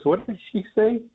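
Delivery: put-on a deaf old man leaning over to his wife; hard-of-hearing old man. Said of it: "he was kinda hard of hearing".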